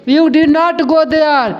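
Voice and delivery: very slow, word by word; slow dictation. Shown as a demonstration. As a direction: dictate slowly to the class. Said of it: "यानी तुम वहाँ मत जाओ". (धीरे-धीरे लिखवाना)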